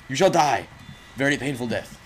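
playful shouted threat; mock villainous threat. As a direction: proclaim doom on your foe, hammed up. Mock threat to game enemy.

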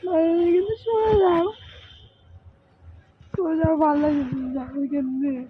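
real weepy protest; crying. Real, not acted. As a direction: beg to be left alone, crying. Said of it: "কান্না করো না".

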